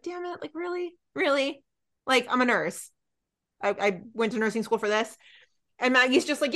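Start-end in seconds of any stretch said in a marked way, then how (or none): 0.0-5.2 quiet, put-out grumble, imitated; mock pissed. Nurse asked to turn over rooms, quietly pissed. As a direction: mutter it as an affronted nurse. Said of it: "like, pissed. Doris is just like".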